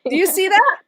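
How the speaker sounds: fighting back happy tears; choked up. Real, not acted. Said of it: "Oh, I'm gonna cry now".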